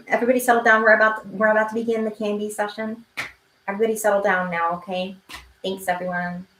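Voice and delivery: a mock kindergarten teacher. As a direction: hush a rowdy class. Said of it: "I'm gonna do the teacher thing".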